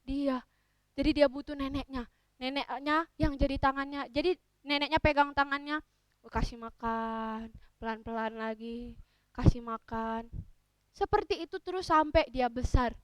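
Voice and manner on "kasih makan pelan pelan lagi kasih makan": slow, low, soft murmur; slow it down tenderly; lulling, careful storytelling; gentle, patient feeding. Acted. Acts grandmother patiently feeding child.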